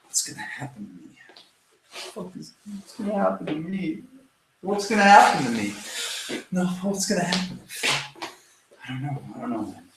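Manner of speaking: soft acted whimpering, pitch leaping high then sinking; worked-up victim. Shown as a demonstration. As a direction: play the helpless, fretting victim. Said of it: "you get yourself worked up like that".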